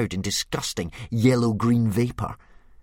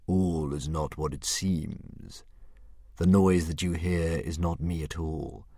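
dragon voice; 2 semitones lower than usual. Acted. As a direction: play the lazy, menacing dragon. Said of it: "said the dragon".

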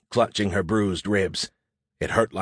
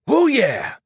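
high, loud whoop of triumph; exulting; 11 semitones higher, 5 dB louder than usual. Acted. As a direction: cheer it like a direct hit just landed. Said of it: "Sammy exulted".

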